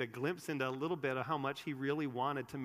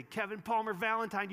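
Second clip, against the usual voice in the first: raised, serious you're-in-trouble mom voice; mock-stern mother, pitched up and loud; scolding mom; 8 semitones higher, 6 dB louder than usual. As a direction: imitate a mom calling out a full name, higher and louder. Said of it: "when my mom used to say".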